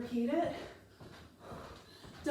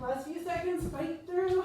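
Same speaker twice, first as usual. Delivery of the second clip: energetic coach push; 6 semitones higher, slower than usual. Real, not acted. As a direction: fire them up for the finish. Coach pushing through final seconds.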